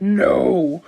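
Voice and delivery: high laughing cry of what are you doing; retelling a TV scene, laughing mock panic; laughing mock alarm. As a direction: shriek it through laughter. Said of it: "He said".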